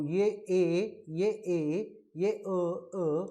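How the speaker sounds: "ए" and "अ" each drawn out slowly; vowel sound demo. Shown as a demonstration. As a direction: point out each vowel, stretching "ए" and "अ". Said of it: "ये उच्चारण ए है".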